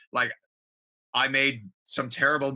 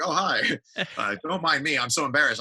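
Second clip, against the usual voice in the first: mock embarrassed; 4 semitones higher than usual. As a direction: act caught red-handed. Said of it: "and I'm just like".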